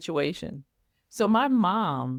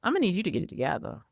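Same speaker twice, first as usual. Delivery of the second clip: impatient boss; 5 semitones higher, much faster than usual. Retold or imitated. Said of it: "where I'm just like".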